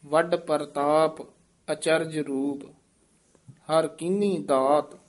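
ਅਚਰਜ with a full ਅ; clear ਅਚਰਜ. Shown as a demonstration. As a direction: sound the ਅ of ਅਚਰਜ. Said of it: "ਐੜੇ ਦੇ ਵਿੱਚ dash ਦੇ ਕੇ". (ਅਚਰਜ ਸਾਫ਼)

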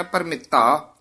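ਭਰਮਿੱਤਾ said with a clear ਤੱਤਾ, a crisp t sound and no d; pronunciation demo. Shown as a demonstration. Teacher showing the student how to say ਭਰਮਿੱਤਾ, with a crisp ਤੱਤਾ. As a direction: say ਭਰਮਿੱਤਾ with a doubled, sharp ਤੱਤਾ. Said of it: "ਤੱਤਾ ਉਚਾਰਨ ਕਰਨਾ ਹੈ".

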